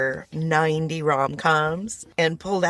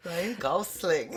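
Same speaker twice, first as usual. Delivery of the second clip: lightly attempted Rebel Wilson accent, drawn out slowly; a rough go at Rebel Wilson's accent, ending on a rise; 6 dB quieter than usual. Host trying to quote the actress in Rebel Wilson's accent. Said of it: "say it in her accent".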